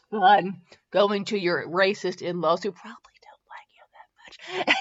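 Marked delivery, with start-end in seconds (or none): 2.7-4.8 hushed sarcastic whisper; snarky whisper; whispered aside. Real, not acted. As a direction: mutter the joke under your breath.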